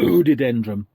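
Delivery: word burped out in one belch; burping the words. Pretend. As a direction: burp the whole word. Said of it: "Now that's a classy burp speak".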